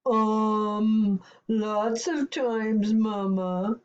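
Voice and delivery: slow, sheepish giant; mild whimper. Acted. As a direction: whimper slightly, like a scolded child. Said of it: "whimpered the giant".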